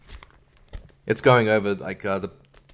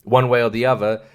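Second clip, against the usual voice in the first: hammed-up indignant accuser, higher pitch; mock outrage; 3 semitones higher than usual. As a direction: play the offended side, voice pitched up. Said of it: "they both will claim that".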